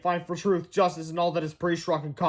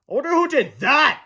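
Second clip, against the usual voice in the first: mock puzzled fan; 8 semitones higher, 5 dB louder than usual. Second fan wondering.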